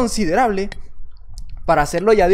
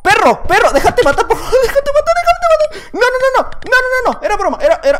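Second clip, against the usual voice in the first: much higher, loud shrieking with laughter; frantic yelling; 13 semitones higher, 5 dB louder than usual. Real, not acted. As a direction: scream at the enemy mid-fight, laughing. Frantic fight in game.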